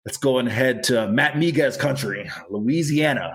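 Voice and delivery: playful, exaggerated Louisiana accent; hammed-up regional accent, announcing Louisiana; put-on accent. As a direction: slide into a mock Louisiana accent for the place names. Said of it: "whatever accent that was that I slid into".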